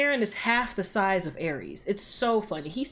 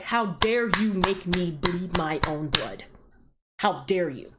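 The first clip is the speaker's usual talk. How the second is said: slow, indignant retold quote; mock outrage; slower than usual. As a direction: act out slow, wounded indignation. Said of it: "made Ares real pissed".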